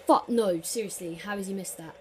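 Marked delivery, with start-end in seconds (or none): 0.1-0.6 frustrated shout. Real, not acted. Penalty given.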